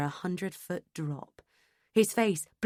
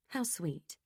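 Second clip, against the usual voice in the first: sarcastic; 8 dB quieter than usual. Acted. Narrator's bitter aside on name.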